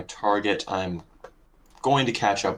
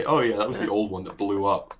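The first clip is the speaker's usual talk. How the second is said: imitating an offhand remark; mock casual. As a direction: toss it off casually, as mimicry. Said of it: "how you just casually say".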